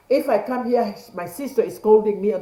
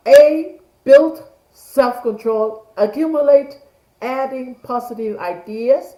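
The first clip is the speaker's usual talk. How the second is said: emphatic teaching call; 4 semitones higher, 5 dB louder than usual. Shown as a demonstration. Teacher drilling the A skill to students, loud and emphatic. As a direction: hammer the points home like a coach. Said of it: "So I like to say".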